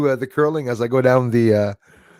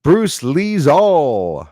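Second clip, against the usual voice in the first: slow drawn-out; 4 semitones higher, 7 dB louder, much slower than usual. Pretend. Reading his mocked name.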